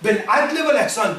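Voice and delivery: rapid chanted Arabic verse; تلاوة سريعة; Quran recitation. Real, not acted. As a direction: recite it quickly in one breath.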